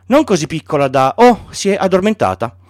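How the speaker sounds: put-on a boy finding his sheep asleep; lightly voiced child, gently surprised; Little Prince.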